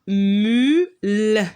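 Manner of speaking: slow, stretched syllable; drawn-out syllable. Shown as a demonstration. Teacher sounding out to pupils, slow and stretched. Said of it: "Donc vous avez remarqué ici".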